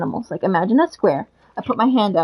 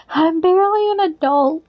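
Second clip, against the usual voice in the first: laughing; 7 semitones higher than usual. Real, not acted. Laughing at own remark.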